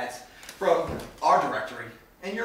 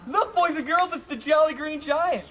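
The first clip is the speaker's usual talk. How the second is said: mocking taunt; 7 semitones higher, 4 dB louder than usual.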